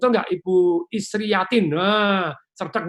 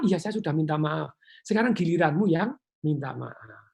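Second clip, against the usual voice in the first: calm reply. Shown as a demonstration. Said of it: "dengan nada yang tepat".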